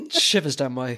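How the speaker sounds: laughing through the words; giggling as she starts the line. Real, not acted. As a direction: breaks into laughter mid-phrase. Laughing at the Kaiser speech.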